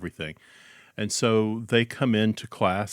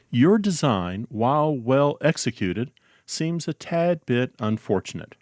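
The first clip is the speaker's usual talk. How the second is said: put-on polite British accent, gentle letdown; 4 semitones higher than usual. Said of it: "if you can pull off the accent".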